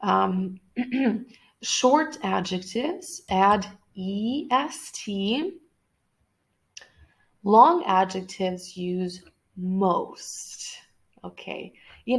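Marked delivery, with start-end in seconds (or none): 1.6-10.8 slow dictation. Shown as a demonstration.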